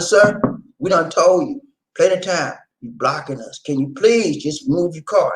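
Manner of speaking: firm, no-nonsense demand to move the car; stern warning. Retold or imitated. To the neighbor blocking the garage, stern and firm. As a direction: lay down the law, unsmiling. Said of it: "I was stern".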